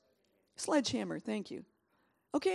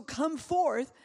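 loud call; 3 semitones higher, 5 dB louder than usual. Shown as a demonstration. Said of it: "he said it with a shout".

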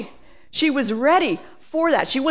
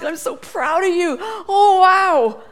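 proud cheering; 7 semitones higher, 5 dB louder, slower than usual. Acted. Holy Spirit cheering us on.

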